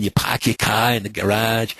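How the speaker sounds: put-on a light Boston accent, dropping the r in "car"; mock Boston accent, lightly done. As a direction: toss off a hint of a Boston accent. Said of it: "If you're from Boston".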